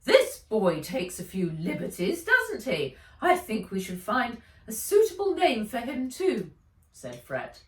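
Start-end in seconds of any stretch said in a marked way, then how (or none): 0.0-6.5 higher, louder character voice, amused; a lightly voiced wry companion; teasing in a raised voice; Fred's voice. Fred character voice.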